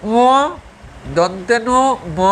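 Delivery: blocked-nose ম and ন; nose held shut. Shown as a demonstration. Teacher testing nasal letters for students, nose held shut. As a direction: try the ম and ন with the nose pinched. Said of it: "নাক বন্ধ করে উচ্চারণ করো".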